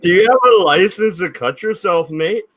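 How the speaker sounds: put-on high, loud Pakistani accent. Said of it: "Now he's doing a Pakistani accent".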